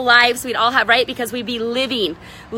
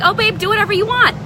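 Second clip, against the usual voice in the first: mock casual husband; 8 semitones higher than usual. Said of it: "my husband can be kinda like".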